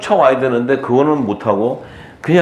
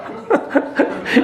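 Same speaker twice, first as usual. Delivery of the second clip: high, breathy chuckle; laugh; 4 dB quieter than usual. Real, not acted. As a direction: break into an amused giggle. Laughs at own punchline. (터져 나온 웃음)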